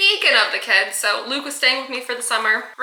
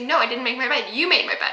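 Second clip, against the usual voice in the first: acted-out denial, rising on the accusation; insistent arguing. Boy arguing over who made his bed, insistent. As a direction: throw the credit back, half laughing. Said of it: "we are arguing back and forth".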